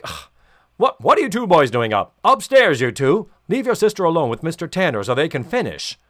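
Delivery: loud, bossy dad voice barking orders upstairs; mock dad. Dad sending the boys upstairs, loud and bossy. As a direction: play the strict father shooing the boys off. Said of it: "He's like".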